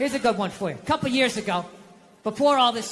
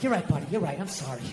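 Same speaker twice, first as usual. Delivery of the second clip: low, dropping to very soft; chastened dad, acted small and low; sheepish apology; 9 semitones lower, 5 dB quieter, faster than usual. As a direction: apologise meekly, sinking in pitch and volume.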